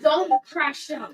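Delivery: slowly stretched, loud warning; slow and drawn out. Real, not acted. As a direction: draw out every word. Repeat, slowed and stretched.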